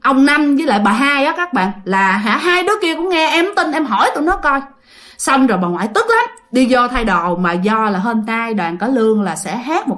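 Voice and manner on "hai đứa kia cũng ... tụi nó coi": high-pitched, mildly exasperated; angry insistence. Acted. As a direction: insist that others can back you up. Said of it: "ông Út cũng tức dữ lắm". (giọng bực, phân bua, lên cao)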